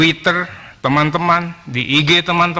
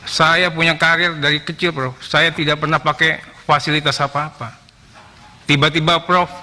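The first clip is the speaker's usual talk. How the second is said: ordinary talk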